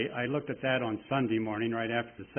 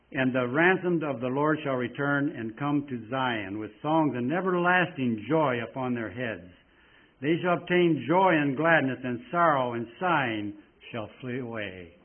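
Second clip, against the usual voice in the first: scripture reading; 3 dB louder than usual. Acted. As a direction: read the verses like a pulpit proclamation. Preacher reads Isaiah aloud.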